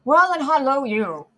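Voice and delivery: loud, high, hoarse reply; hoarse hail. A narrator's reading. Rider Jerry answering the guard, hoarsely hailing back. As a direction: holler it back with a rasp. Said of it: "said Jerry more hoarsely than before".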